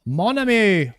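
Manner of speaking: light mock Australian-ish accent on "Mon ami"; a quick imitation of Stella's accent; imitating her accent. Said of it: "I love her accent".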